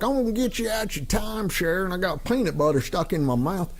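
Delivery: a hint of a pushy salesman with a full mouth; imitating Chuck McDowell. Mocking Chuck McDowell as a timeshare salesman, mushy mouth. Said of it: "you're not like Chuck McDowell, like".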